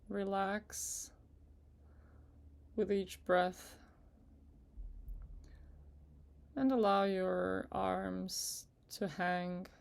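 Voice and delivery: unhurried meditation guide with long pauses; guided meditation. Acted. Guide asking listeners to relax with each breath, in calm meditation voice. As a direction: ease them gently through it, leaving space between phrases.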